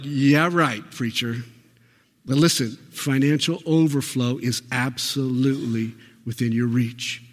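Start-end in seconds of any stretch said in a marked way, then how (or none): 0.0-1.4 fading sarcastic Yeah, right; mock sarcastic doubt. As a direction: scoff at the preacher. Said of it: "Some of you are probably like".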